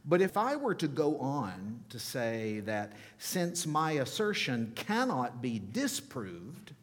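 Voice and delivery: lightly lofty, emphatic delivery of a written argument; condescending. Acted. Preacher reads an atheist philosopher to church, mildly condescending. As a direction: read with a touch of condescension. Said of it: "you can hear the condescension".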